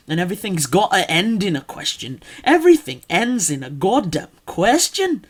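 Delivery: emphatic Scottish demo with questioning melody; Scottish accent. Shown as a demonstration. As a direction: hammer home the questioning Scottish lilt. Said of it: "everything ends in a question".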